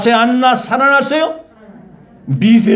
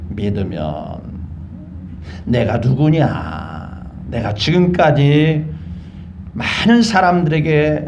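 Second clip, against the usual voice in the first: lower, slow, unhurried reply; calm and unruffled; 5 semitones lower, slower than usual. Acted. Jesus answering Mary's complaint, unhurried and calm. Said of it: "예수님은 태연스럽게 말했어요".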